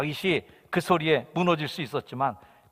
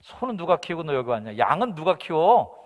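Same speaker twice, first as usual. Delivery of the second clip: comedian parody; 4 semitones higher, 6 dB louder than usual. Acted. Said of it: "코미디언의 말을 좀 패러디해서".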